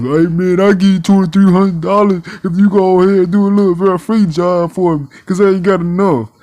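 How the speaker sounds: lightly voiced mock GM offer; quick mocking impression; a hint of a smug boss. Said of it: "You talking about".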